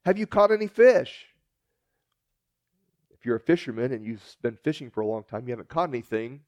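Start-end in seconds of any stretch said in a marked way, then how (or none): 0.0-1.3 high, loud hail from the shore; calling out. Retold or imitated. Stranger hailing fishermen from shore, loud and high. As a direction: call across the water. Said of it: "yells out".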